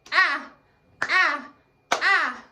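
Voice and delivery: punchy, open short-A "ah", three times; letter-sound demo. Shown as a demonstration. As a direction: say "ah" loudly as a separate short vowel each time. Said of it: "A, Allie Alligator says".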